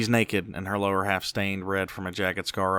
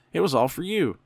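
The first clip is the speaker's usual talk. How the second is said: much higher and louder, gushing; overcome with excitement; 9 semitones higher, 5 dB louder than usual. A narrator's reading. Mother tells her son everything was for him, gushing excitedly. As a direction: burst out with giddy joy. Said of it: "still overcome with excitement".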